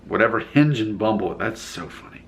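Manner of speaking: breathy, holding back laughter; stifled laugh. Real, not acted. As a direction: try to keep a straight face. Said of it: "hard to say that with a straight face".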